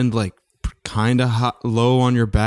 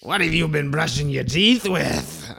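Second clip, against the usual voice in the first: sneering villain voice, pitched up; mustache twirling villain; 5 semitones higher than usual. Retold or imitated. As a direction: play the cartoon dentist villain. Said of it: "he was twirling his mustache".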